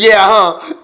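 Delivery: hick laugh reply. Retold or imitated. Hick husband replies.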